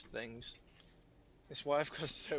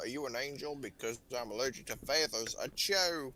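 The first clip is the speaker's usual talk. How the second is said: put-on American accent. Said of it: "the worst American accent".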